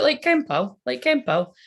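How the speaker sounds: high start, dropping on the repeat; mock granddad insisting on his word; imitated granddad. Granddad explaining his word to grandchild, imitated granddad. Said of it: "I really sounded like, he'd be like".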